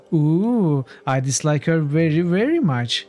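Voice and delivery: high sweet voice pretending to be mean; mock dislike. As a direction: try hard to sound nasty and fail. Ninny tries to sound mean.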